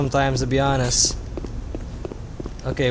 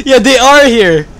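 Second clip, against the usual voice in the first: high laughing fit; 4 semitones higher than usual. Real, not acted. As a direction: burst of high laughter, then words still laughing. Laughing at biker gang joke.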